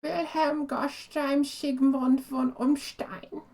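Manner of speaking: slow attempt at a German name; careful, slow German-accented retry; German pronunciation. Shown as a demonstration. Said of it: "Can't say Stein without being in German".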